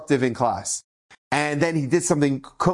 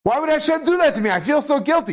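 put-on tearful child; 6 semitones higher than usual. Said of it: "the boy was in tears".

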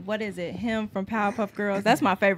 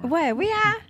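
surprised question; 10 semitones higher, 7 dB louder, slower than usual. Real, not acted. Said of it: "I thought you said we hot".

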